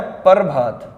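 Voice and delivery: "प्रभात" demonstrated as "par-bhaat"; "प्रभात" in two beats, "par" then "bhaat"; split "par" pronunciation. Shown as a demonstration. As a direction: say "प्रभात" with the r after the vowel. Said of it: "एक क्या होता है".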